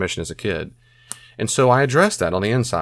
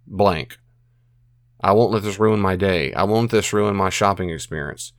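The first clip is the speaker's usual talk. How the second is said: soothing self-talk. Shown as a demonstration. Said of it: "simply to say".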